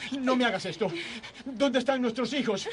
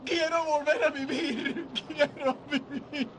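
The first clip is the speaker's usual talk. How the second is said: tearful pleading. Acted. George begs to live again.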